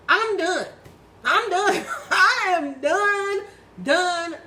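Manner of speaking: loud, high, insistent repeats; emphatic declaration. Real, not acted. Woman swearing off her old self, loud and emphatic. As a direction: belt out each word, fed up.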